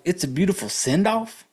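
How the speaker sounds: light mock of a sweet condolence; sneering echo of "It's a beautiful send-off"; mocking repeat. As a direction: parrot "beautiful send-off" scornfully. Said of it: "who the fuck says shit like that".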